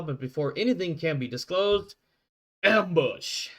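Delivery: announcer-style recap of last session; recap narration. Acted. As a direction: read the previously-on like a show intro. Game master recap of last session.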